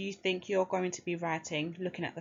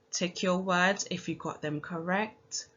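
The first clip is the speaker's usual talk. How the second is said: ordinary talk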